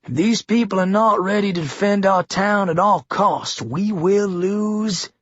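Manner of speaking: the governor warns Lily, building to a menacing promise. A narrator's reading.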